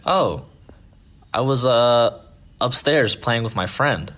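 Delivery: a hint of an innocent kid explaining himself; little boy. Boy explains to his mom, lightly imitated child.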